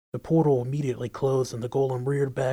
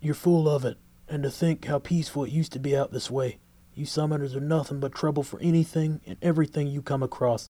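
angry cowboy rant; 2 semitones higher than usual. Acted. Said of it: "building himself into a rage".

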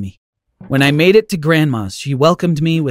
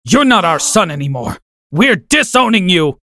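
mild mock scream; 2 semitones higher than usual. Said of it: "my dad screamed".

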